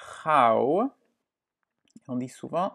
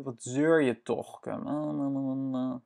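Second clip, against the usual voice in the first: 1 mock whiny complaint. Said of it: "C'est vraiment plaintif".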